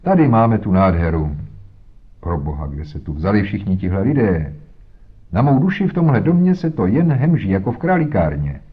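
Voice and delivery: a pompous, hearty policeman booming in; blustering inspector. Acted. Bluff inspector Jones blusters in.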